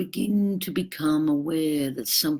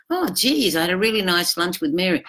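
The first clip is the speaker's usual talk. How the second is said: happy chatter; 4 semitones higher than usual. Retold or imitated. You come home happy from lunch.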